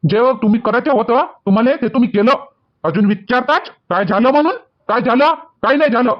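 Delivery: indignant son-in-law throwing the question back; heated, aggrieved retort to the in-laws; angry. Acted. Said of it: "काहून एवढे रागात आले जावई बापू". (रागात, चिडलेला आवाज)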